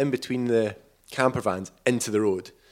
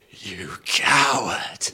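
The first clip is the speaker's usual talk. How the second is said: whisper; much slower than usual. Retold or imitated. Father's insult, whispered.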